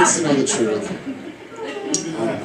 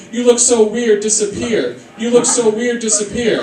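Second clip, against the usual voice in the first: lightly voiced kid, pitched up; imitated rude kid; 5 semitones higher than usual. Kid insulting him in a classroom, lightly imitated high voice. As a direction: mimic a child's blunt insult, higher. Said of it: "this kid goes".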